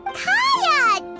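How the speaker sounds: high, bright-eyed hail; delighted greeting. Acted. Companion spots just the person needed, delighted. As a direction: call out happily, pitch jumping up.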